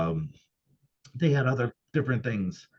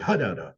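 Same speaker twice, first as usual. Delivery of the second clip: "Hudda" with the emphasis in the middle of the word; demonstrating mid-word stress on "Hudda"; 4 semitones lower than usual. Shown as a demonstration. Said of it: "put the emphasis in the middle of the word".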